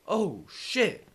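very high, loud terrified screams; shrieking after a jump scare; screaming in fright. Real, not acted. Player caught by the girl, screaming in fright.

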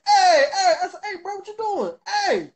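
high, urgent calls of hey; alarmed calling to a brother who won't answer. Retold or imitated. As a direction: call out sharply to get his attention.

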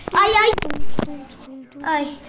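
flee in laughing panic; panicked laughing cry. Acted. Panicked fleeing.

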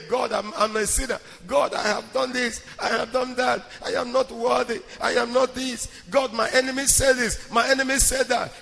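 repetitive recital imitating a negative prayer; mock complaining prayer. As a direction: list grievances to God by rote. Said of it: "Every day is complaining".

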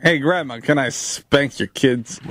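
creepy voice. Pretend. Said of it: "you doing that voice".

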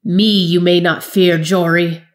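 loud, shaking threat; quavering fury. Acted. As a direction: let the rage tremble through the threat. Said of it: "the wizard's voice quavered with fury".

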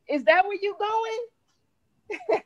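very slow, high, drawn out then a laugh; mocking disbelief. Real, not acted. Mocking a co-host's insult, very slow and high, laughing.

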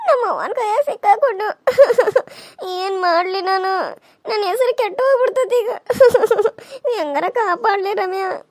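wife begging husband to save her; panicked whimper. Acted. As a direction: beg for rescue, near tears. Panicking about being caught.

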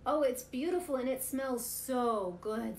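slow, loud and high, delighted; delighted pig. Acted. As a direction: savour each word like a hungry pig. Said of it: "said Pig".

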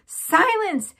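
head mouse roaring again. A narrator's reading. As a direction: bellow over the crowd. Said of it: "roared the very honored head mouse".

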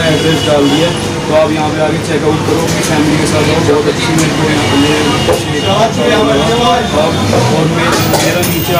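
speaking past fingertips; fingers against lips. Real, not acted. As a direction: hand resting at mouth. Seen 1: Fingers rest on lips and chin while speaking throughout.

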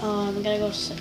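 voice crack. Real, not acted. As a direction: voice cracking mid-word. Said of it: "that was a voice crack and a half".

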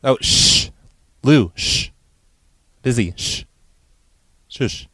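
shushing. Pretend. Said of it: "just shushing them".

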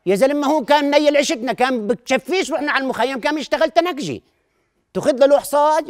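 high, loud mock bragging; excited boasting. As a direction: brag it up with excitement. Boasting about father tinsmith.

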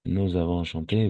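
"Nous avons" joined by a z sound; liaison. Shown as a demonstration. Teacher repeats the past tense form, with liaison. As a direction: run "Nous avons" together as "nou-zavons". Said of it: "avec la liaison".

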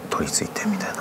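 whispered, hushed; eerie whisper. Real, not acted. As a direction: whisper it like a secret. Possessed girl, creepy climax.

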